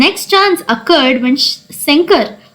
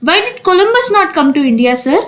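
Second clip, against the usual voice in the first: higher-pitched schoolboy calling out; raised voice, lightly acted shout; mock top of the voice; 4 semitones higher than usual. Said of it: "asked at the top of his voice".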